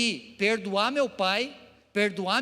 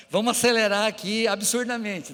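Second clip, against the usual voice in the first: laughing; 3 semitones higher, 5 dB louder than usual. Real, not acted. Laughs about running out of time.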